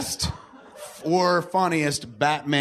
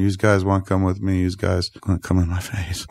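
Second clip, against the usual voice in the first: New Jersey accent; 6 semitones lower, 3 dB louder than usual. Shown as a demonstration. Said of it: "can you do a New Jersey accent".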